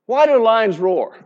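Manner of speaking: ordinary talk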